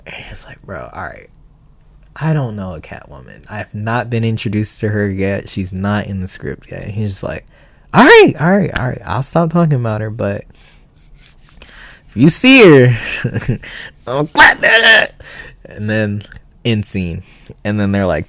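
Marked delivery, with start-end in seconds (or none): 0.6-6.8 low flat voice. Retold or imitated. Actor voiced in retold story. 7.9-15.2 goofy high voice. Retold or imitated. Friend voiced in retold story.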